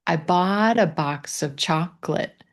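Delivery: "bought" and "chocolate" carry the stress. Shown as a demonstration. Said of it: "Try just putting your emphasis on bought".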